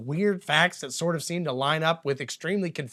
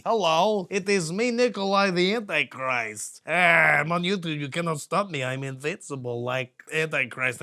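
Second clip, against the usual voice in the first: a half-hearted mock Romanian accent; bad Romanian accent. Host mocking Nikolai to viewers in a bad Romanian accent. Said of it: "I could do a better Romanian accent".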